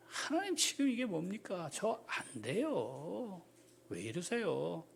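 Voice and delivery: soft, drawn-out refusal; tired Moses quietly refusing; weary lament. Acted. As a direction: sigh it out to God. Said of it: "지금 모세는 어떤 감정일까요".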